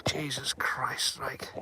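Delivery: hushed, slow gasp of alarm; slow frightened whisper in the dark; startled whisper. Real, not acted. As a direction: breathe it out under your breath, spooked.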